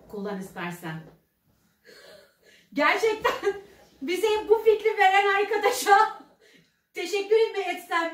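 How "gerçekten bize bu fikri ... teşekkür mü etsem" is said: laughing. Real, not acted. Laughing while thanking viewers.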